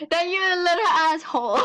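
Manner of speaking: a real tearful shout of insult; angry outburst. Real, not acted. A girl shouting at the scammer who accused her, tearful and furious. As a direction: yell it at her through angry tears.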